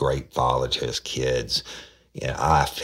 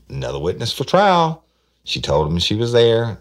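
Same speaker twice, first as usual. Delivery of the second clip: excited emphasis; 11 semitones higher, 8 dB louder than usual. Real, not acted. Detective stresses case breakthrough.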